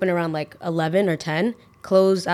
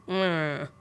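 softer imitated incoherent "mm"; gibberish mumble; 6 dB quieter than usual. Dozing customer answering the server, mumbled gibberish. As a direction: imitate a dozy, wordless mumble. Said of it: "Literally just gibberish".

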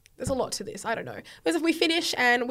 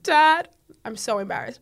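half-laughing teary wail, higher and louder; mock crying plea; 4 semitones higher, 8 dB louder than usual. Daughter wailing to her dad on the phone, mock crying. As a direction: ham up a teary confession to dad. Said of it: "I'm, like, crying and I'm like".

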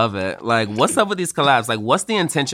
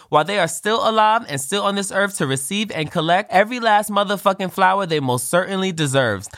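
rushing through a long sentence without a breath; winded, racing to the end of the line; 6 semitones higher than usual. Real, not acted. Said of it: "I'm out of breath talking about it".

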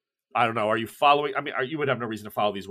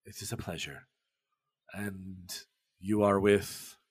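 put-on Pessoa's accent; slower than usual. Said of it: "shocked to hear another accent that isn't Russian".

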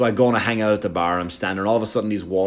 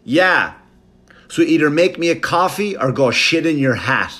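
put-on grumpy old man; 5 semitones higher, 3 dB louder than usual. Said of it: "the old guy went".

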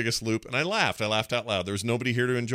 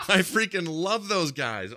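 real laughter breaking through, higher; laughing; 8 semitones higher, slower than usual. Real, not acted. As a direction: laugh while gushing about them. Gushing about the turtles.

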